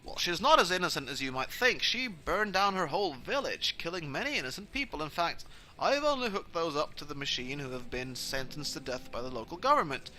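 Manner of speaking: lightly acted genial villain; self-justifying vampire dad. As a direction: justify it smoothly, like an official. Plays vampire dad justifying himself.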